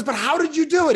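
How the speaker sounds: high mock amazement; amazed customer. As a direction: gush like a stunned fan. Amazed customer asks again.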